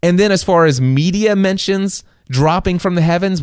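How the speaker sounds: normal talking voice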